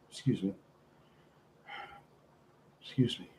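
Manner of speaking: catching breath; short of breath. Real, not acted. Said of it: "I catch my breath".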